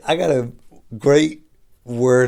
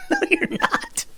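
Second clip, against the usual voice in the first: high incredulous retort; slower than usual. Real, not acted. Calling out excuse-makers.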